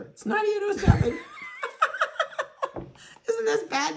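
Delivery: bursts out laughing, high and loud at her own mix-up; laughing realization. Real, not acted. Breeder laughing at herself after mixing up the puppies, real laughing shout. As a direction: laugh through the number, caught out by her mistake.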